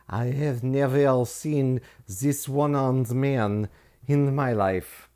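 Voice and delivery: slow, lightly put-on Borat-style accent; a hint of Borat's accent, drawn out. The Frenchman denying the one-armed man, in a lightly put-on Borat accent. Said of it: "that went into Borat territory".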